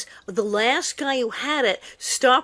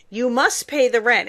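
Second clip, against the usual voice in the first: mustache twirling villain. Retold or imitated. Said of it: "the old sketch from the melodrama, complete with mustache".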